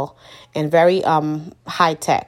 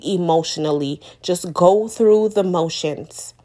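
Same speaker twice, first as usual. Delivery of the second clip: heartfelt advice; 3 semitones higher than usual. Real, not acted.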